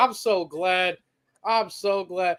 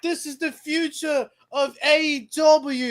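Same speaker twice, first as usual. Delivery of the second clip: a light put-on British accent, slowed; mock Saraya's English accent; mimicked accent. Mocking Saraya's promo in a light put-on British accent. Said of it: "That was a pretty good accent".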